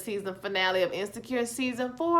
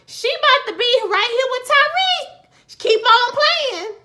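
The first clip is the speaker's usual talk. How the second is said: fired-up warning; 11 semitones higher, 6 dB louder than usual. Real, not acted. Fired-up rant about Molly.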